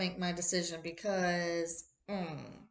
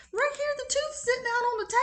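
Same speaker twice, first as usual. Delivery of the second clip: laughing; 4 dB louder than usual. Real, not acted. Laughing high-pitched disbelief.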